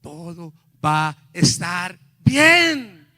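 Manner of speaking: very slow, loud, weighty proclamation; each word spaced out slowly and loudly; voice of God. Retold or imitated. Preacher relays God's answer to his prayer, booming slowly. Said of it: "yo oí la voz de Dios que me dijo".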